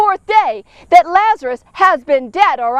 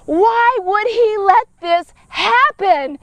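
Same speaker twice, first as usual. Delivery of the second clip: crying; 2 semitones higher, slower than usual. Acted. Preacher voicing Mary's grief.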